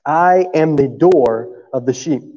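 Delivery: slow, deliberate scripture reading. Acted. Preacher reading John ten aloud to the congregation, slow and solemn. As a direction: read the verses weightily, pausing.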